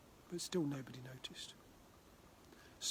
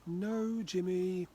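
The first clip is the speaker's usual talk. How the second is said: higher, louder firm refusal; 4 semitones higher, 7 dB louder, much slower than usual. Acted. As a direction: stop the child in his tracks. Dad refusing insistent child.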